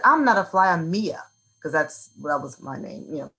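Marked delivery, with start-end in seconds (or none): 0.0-1.2 put-on child speaking up. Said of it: "I turned around and I said".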